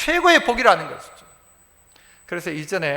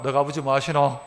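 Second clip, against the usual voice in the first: quiet aside; 10 semitones lower, 6 dB quieter than usual. Shown as a demonstration. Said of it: "옆 사람에게 한번 이야기해 볼까요?".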